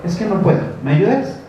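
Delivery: lightly voiced kid coaxing mom for help; pleading child. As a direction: son wheedling his mother, mild pleading child voice. Child begging parent for help.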